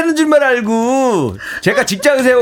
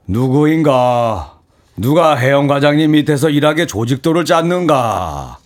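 stern boss; 8 semitones lower than usual. Acted. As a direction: lower and drag it out like a stern boss. Mock stern boss reply.

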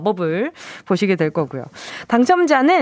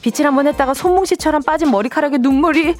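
lively home-shopping host read; scripted product promo delivery; radio shopping pitch; 3 semitones higher than usual. Acted. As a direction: sell it like a radio shopping segment. Scripted shopping segment over music.

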